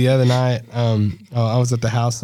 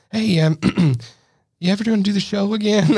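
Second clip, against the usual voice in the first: much higher eager fan voice; a fan stopping him in public, higher and eager; fan asking; 9 semitones higher than usual. Retold or imitated. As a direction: play a hopeful fan asking. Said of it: "people all the time that are like".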